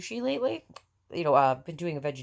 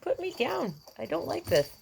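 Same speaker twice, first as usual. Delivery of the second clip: put-on much higher voice for the fussing baby; voicing the baby; 13 semitones higher than usual. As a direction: speak for the unhappy infant, high and whiny. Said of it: "She's like".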